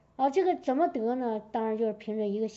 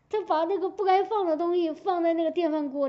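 laughing while speaking; 5 semitones higher, 4 dB louder than usual. Real, not acted. Laughing at child's mess story.

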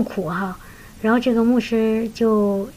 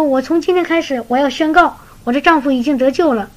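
joyful declaration; 4 semitones higher than usual. Retold or imitated. Sister joyfully vowing to proclaim her husband saved. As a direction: declare it full of joy. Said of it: "这个姊妹非常喜乐".

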